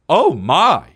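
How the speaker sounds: prim little gasp Oh, my; a hint of a fifties housewife. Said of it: "you're a housewife from the fifties".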